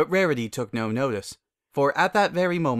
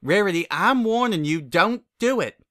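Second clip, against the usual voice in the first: higher, louder urgent plea; pleading; 8 semitones higher, 5 dB louder than usual. Acted. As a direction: beg her to stop, slowing on the last words. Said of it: "Applejack pleaded".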